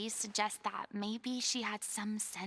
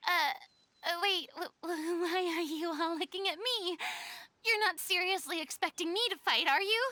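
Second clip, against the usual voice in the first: stammering, higher and nervous; flustered nerves; 5 semitones higher than usual. Acted. Asked to fight by the group, flustered and nervous. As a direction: stumble over it, panicking a little.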